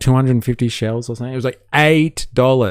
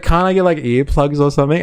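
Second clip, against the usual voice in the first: whiny scared self; 6 semitones higher, faster than usual. Retold or imitated. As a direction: whine for the earplugs. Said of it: "I was like".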